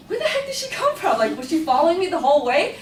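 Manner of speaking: high, laughing through the question; laughing disbelief. Retold or imitated. Stunned, laughing at teacher reappearing.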